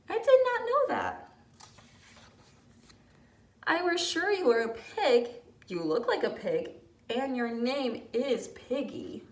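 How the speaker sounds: Gerald doubting his friend, lightly voiced; puzzled elephant Gerald.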